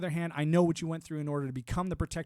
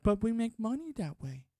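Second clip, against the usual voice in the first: higher, whiny corporate excuse; mock greedy media exec; 7 semitones higher than usual. Mocking media companies defending their algorithms, higher whiny excuse. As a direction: whine it like a shrugging money-grubber. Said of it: "And they're like".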